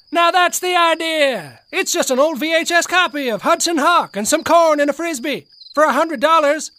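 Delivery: excited buyer. Acted.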